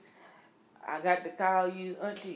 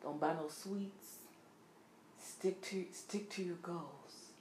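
quiet; 12 dB quieter, slower than usual. Real, not acted. Mock self-advice.

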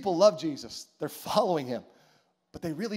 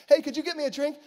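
higher and louder, building to a hammed-up yell; mock angry woman; 9 semitones higher, 7 dB louder than usual. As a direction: ham up her rage, louder to the end. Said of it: "That's her response to Jesus".

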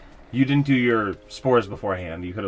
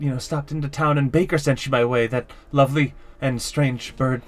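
tired mayor voice; 5 semitones higher than usual. Acted. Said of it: "he's like".

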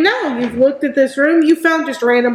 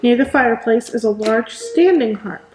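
measured read-aloud room description; game master's scene setting. Acted. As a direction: set the scene for players, with deliberate pauses.

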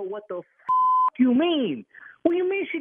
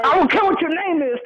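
irritated; 7 semitones higher, 9 dB louder than usual. Real, not acted. Angry husband snapping at caller.

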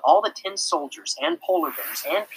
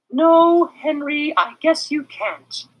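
slow, higher resigned reply; sighing; 14 semitones higher, 7 dB louder, much slower than usual. A narrator's reading. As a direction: give in with a sigh. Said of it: "Miss Roop sighed".

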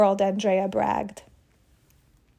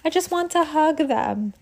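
gushing; 6 semitones higher than usual. Acted. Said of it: "Andrea whispered".

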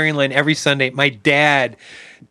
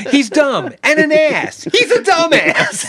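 mock dad put-down; 9 semitones higher, slower than usual. Mocking dad's put-down.

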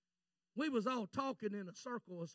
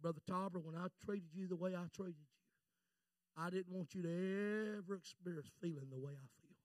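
low, soft retold explanation; subdued earnest confession; 4 semitones lower, 6 dB quieter than usual. Pastor explaining his harshness to Brother Tauber, subdued earnest confession. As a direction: explain gently, drawn from pain.

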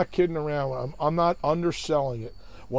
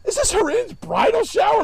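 loud, high mocking heckle; imitated jeer, pitched way up; smart-ass heckler; 7 dB louder than usual. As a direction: call it out like the wise guy in the crowd. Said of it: "like, a real smart ass".

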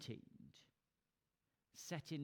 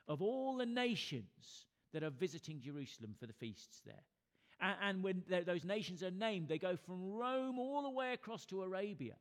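raised preacher's voice, punching key phrases; emphatic preaching; 4 semitones higher, 5 dB louder than usual. Real, not acted. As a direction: drive the story forward with preaching energy. Preaches Pentecost at raised force.

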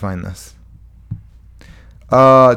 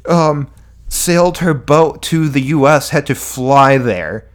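mock critic; 4 semitones higher than usual. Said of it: "It's like".

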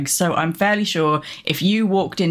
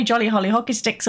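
posh English; 2 semitones higher than usual. Retold or imitated. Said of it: "Do we say".

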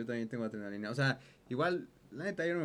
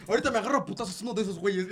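mock angry threat; 4 semitones higher, 4 dB louder, faster than usual. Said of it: "así de".

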